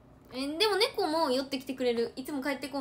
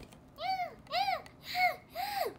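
begging cat meows. Retold or imitated. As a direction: mew on and on like a cat wanting treats. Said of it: "みたいな". (おやつをねだる猫の高い鳴き真似)

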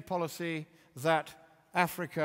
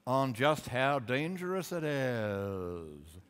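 Al Gore impression. Mocking Al Gore to the audience, hammed-up pompous imitation. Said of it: "I can't do his dreadful accent".

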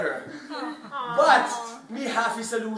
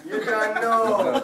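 slow replay; slower than usual. Retold or imitated. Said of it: "in one sound clip".

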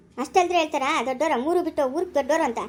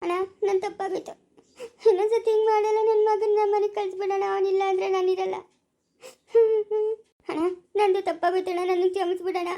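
higher, pleading and tearful; tearful begging; 3 semitones higher than usual. Acted. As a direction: beg your brother to forgive you. Sister begs brother, tearful. (ಅಳುತ್ತಾ ಅಣ್ಣನನ್ನು ಬೇಡುವುದು)

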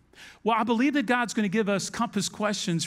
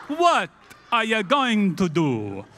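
mock Italian-German accent; 5 dB louder, slower than usual. Disciple giving up over the bread, hammed-up Italian-German accent. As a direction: end the Italian-German rant with a drawn-out drop. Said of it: "I don't know how my accent has changed".

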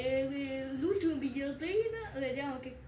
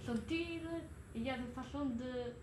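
mock French; 4 dB quieter than usual. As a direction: fake French poem recital. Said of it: "Inventa una poesia".

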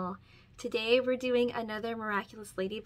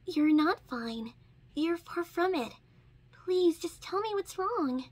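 firm; 7 semitones higher than usual. Acted. Ladybug to wounded Chat, a firm, slow insistence. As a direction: press him firmly to tell the truth. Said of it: "Ladybug said firmly".

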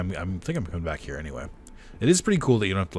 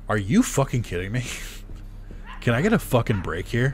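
frustrated; 5 semitones higher than usual. Real, not acted. Frustrated at game enemies.

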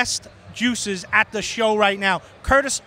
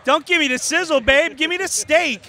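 raised, emphatic retold demand; loud; 6 semitones higher, 6 dB louder than usual. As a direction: boom it out, tough-guy style.

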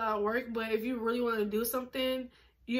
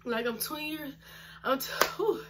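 breathless, running out of air; gasping between words; out of breath; 3 semitones higher than usual. Real, not acted. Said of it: "I be getting out of breath just from talking".

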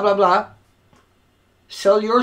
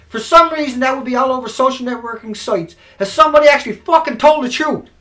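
raised rant; 5 semitones higher, 7 dB louder than usual. Real, not acted. Rhetorical build, raised voice.

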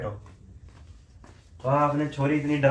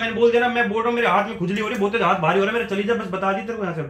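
raised, insistent protest; irritated refusal; 3 semitones higher than usual. Pretend. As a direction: refuse heatedly, words tumbling out. Husband angrily refuses to leave room.

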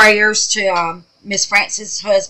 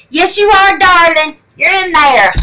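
pitched way up, loud and delighted; high excited cooing; 10 semitones higher, 7 dB louder than usual. Real, not acted. Crafter cheering a viewer's name, high excited coo.

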